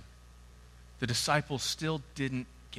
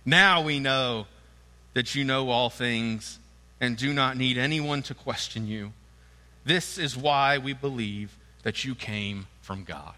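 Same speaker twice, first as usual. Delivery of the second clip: eager disciples; 4 dB louder than usual. Acted. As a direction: play the thrilled disciples. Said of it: "his disciples said".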